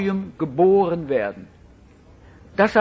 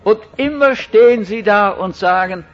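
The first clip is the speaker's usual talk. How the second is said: louder, fed-up woman pressing a question; woman confronting the preacher, louder and exasperated; 2 semitones higher, 5 dB louder than usual. Retold or imitated. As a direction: play the impatient listener demanding an answer. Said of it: "hat gesagt".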